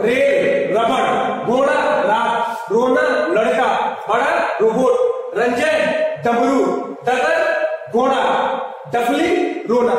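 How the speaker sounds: रेल, रबड़, घोड़ा read out in deliberate contrast; mixed drill. Shown as a demonstration. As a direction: alternate र, ड़, ड clearly. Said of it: "मैं mix करके repeat कर रहा हूं". (मिलाकर अभ्यास)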